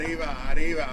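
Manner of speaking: Arriba without rolling the r; flat r arriba. Retold or imitated. Son attempting the call, Arriba with no trilled r. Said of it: "he's like".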